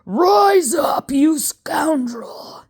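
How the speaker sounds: high, loud yelled command; impatient shout. Acted. Impatient professor yells at the ghost, high and loud. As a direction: bellow at the coffin. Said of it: "he was getting impatient".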